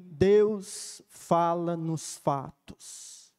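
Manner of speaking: each word slowly and gravely, Deus fala nos fatos; slow solemn reading. Shown as a demonstration. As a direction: read the inscription slowly, pausing on Deus. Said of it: "eles escreveram assim".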